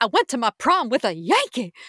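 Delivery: high-pitched, swooping Southern belle voice. Discussing a scene from the show, Blanche impression. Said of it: "I do a pretty good Blanche".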